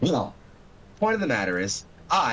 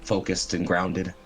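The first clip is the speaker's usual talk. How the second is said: measured, dramatic scene setting; game master narration; 3 semitones lower than usual. Acted.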